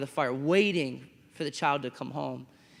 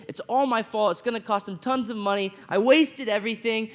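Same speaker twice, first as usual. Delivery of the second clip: higher and louder, rushing confession; panicked guilty kid; 5 semitones higher, 5 dB louder than usual. Retold or imitated. Teen who crashed dad's car, panicky and guilty. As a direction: blurt it out like a scared teen who wrecked the car.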